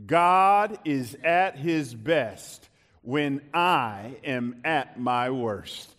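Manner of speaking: slow lead for a congregation to join; measured, falling recitation. Shown as a demonstration. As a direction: say it slowly so they can follow. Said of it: "Can you say that with me?".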